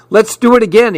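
high, eager call to go again; eager shout. A narrator's reading. Pete begging for another round, shouting eagerly. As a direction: shout it like the game's too fun to stop. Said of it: "he shouted".

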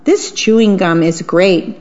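proud and thrilled, as if showing off; delighted cry. Acted. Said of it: "cried the old mouse".

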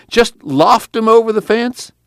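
high, slow wheedling; coaxing request; pleading. A narrator's reading. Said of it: "Jewel pleaded".

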